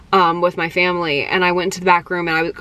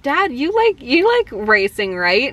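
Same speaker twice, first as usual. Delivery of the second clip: coaxing; 5 semitones higher than usual. Retold or imitated. Acts out coaxing her dad.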